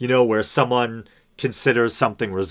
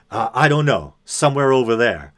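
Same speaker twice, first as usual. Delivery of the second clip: louder, offhand brush-off, lightly imitated; dismissive; 2 semitones higher, 5 dB louder than usual. Stranger dismissing the narrator's question, a hint of mock aggro. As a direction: wave him off without caring. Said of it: "kind of an aggro vibe to him".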